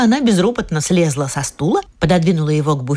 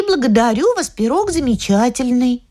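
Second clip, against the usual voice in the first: put-on little girl voice; 4 semitones higher than usual. Girl prompting the line.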